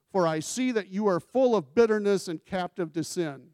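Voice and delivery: Peter's stern rebuke. Acted. Preacher voicing Peter's rebuke.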